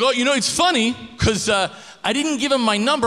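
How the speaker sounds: high sheepish goofy voice; sheepish roommate. Retold or imitated. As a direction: sound guilty and goofy.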